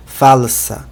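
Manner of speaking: falsa with the L said as L, not U; falsa, keep the L distinct; clear L in falsa. Shown as a demonstration. Teacher shows Esperanto L in falsa. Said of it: "o L não é pronunciado como U".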